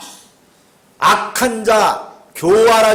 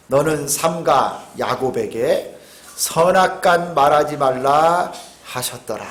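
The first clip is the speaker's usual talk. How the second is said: scripture reading; 6 semitones lower than usual. Shown as a demonstration. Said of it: "뭐라고 말씀하냐면".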